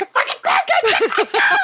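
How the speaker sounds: high squealing mock panic, laughing; frantic shriek. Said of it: "you're like".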